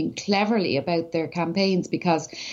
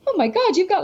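higher, gushing mock amazement; a lightly voiced barman getting excited; 10 semitones higher than usual. Pub guy sees follower count.

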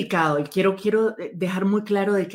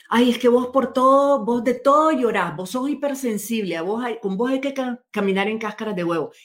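higher, mocking and impatient; dismissive partner; 4 semitones higher than usual. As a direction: brush her off like an exasperated partner. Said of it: "o me dice".

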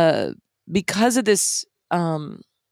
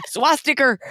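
put-on Brooklyn accent; 6 semitones higher than usual. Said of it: "the Brooklyn coming out of you".

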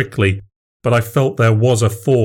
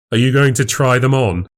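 higher, needling question; 4 semitones higher than usual. Acted. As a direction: goad him with a mock-innocent question. Narrator character needles his rival.

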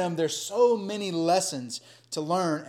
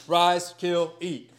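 a loud, raised divine command; voice of God commanding; 2 semitones higher, 4 dB louder, much slower than usual. Acted. God commanding Peter to eat, loud divine voice. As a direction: proclaim it from heaven.

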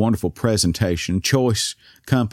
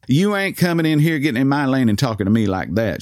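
mildly indignant scolding, slightly higher; angry cashier; 4 semitones higher than usual. Retold or imitated. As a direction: voice an offended cashier telling off a customer. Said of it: "She was clearly angry at that point".

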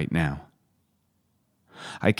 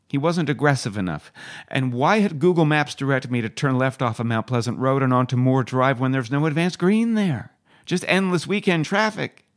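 higher-pitched, aggrieved griping; exasperated rant; 5 semitones higher than usual. Acted. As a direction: complain about traffic, pitch climbing to the end. Griping about a driver and directions.

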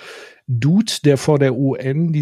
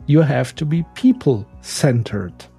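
English with a German accent, read out deliberately; German accent on careful English. Real, not acted. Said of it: "deswegen entschuldigt meinen Akzent".

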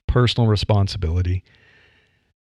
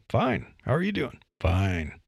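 polite Midwestern small talk; 8 dB quieter than usual. Retold or imitated. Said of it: "not talk like this".

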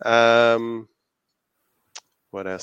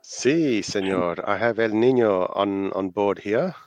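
put-on playful Spanish lilt over an Aussie accent; mock Spanish accent; 4 dB louder, slower than usual. Co-host answers about El Nino news, mock Spanish accent. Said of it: "Any sort of Spanish accent".

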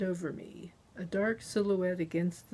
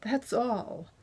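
higher, mildly gasping finish; gasped; 4 semitones higher than usual. A narrator's reading. Captive insisting to her interrogator, lightly gasped. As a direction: end the answer as if short of air. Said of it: "I gasped".

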